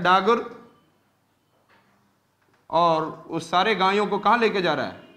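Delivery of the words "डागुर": डागुर with a u sound, daa-gur, rising; spoken Dagur. Shown as a demonstration. Teacher giving the spoken form डागुर, daa-gur, rising. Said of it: "पढ़ने के लिए डागर बोला जाता है".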